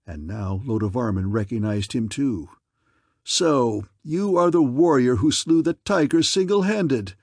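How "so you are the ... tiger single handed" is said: loud and higher, a furious accusation; outraged king crying out; angry cry. Acted. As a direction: hurl it at him. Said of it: "he cried".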